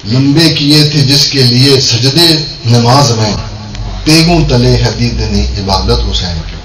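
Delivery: measured devotional Urdu couplet recital; verse delivered line by line; poem recitation. Acted. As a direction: recite the couplet to a gathering, falling at the close.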